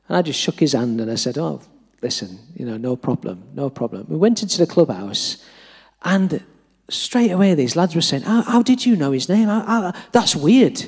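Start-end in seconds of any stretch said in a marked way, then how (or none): 1.4-4.0 soft, low brush-off of an apology; retold forgiveness, quiet and easy; reassuring. Acts out himself accepting apology. 8.2-10.8 higher, stammering disbelief; retold astonishment, pitched up; amazed questioning. Acts out lads' amazed questioning.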